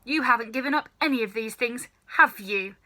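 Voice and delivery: put-on a stern old grandmother lecturing; scolding old grandma. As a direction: nag him like a sharp old granny.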